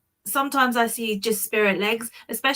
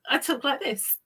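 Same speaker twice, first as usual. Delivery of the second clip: softer Surrey accent; 3 semitones higher, 5 dB quieter than usual. Shown as a demonstration. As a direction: show your Surrey accent, more quietly. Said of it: "But when I'm in Surrey".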